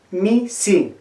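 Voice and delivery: "Mi, si" as two careful separate words; teacher's model of the i in "Mi, si"; careful pronunciation. Shown as a demonstration. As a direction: pronounce "Mi" and "si" clearly, one by one. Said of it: "pronuncien bien".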